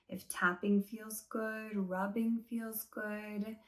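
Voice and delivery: calm, unhurried meditation-guide voice; guided body scan. Shown as a demonstration. Teacher easing class through a body scan, calm guided meditation. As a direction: guide them gently, leaving long pauses between phrases.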